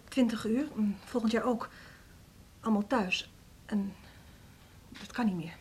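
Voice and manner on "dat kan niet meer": very soft, reluctant admission; subdued confession. Acted. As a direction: admit it almost under your breath. Troubled teacher confides in director.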